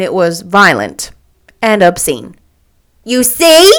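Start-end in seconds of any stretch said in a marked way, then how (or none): 3.0-3.7 high, loud cry of vindication; triumphant I-told-you-so. A narrator's reading. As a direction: crow it, pitch rising. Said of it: "cried Catherine triumphantly".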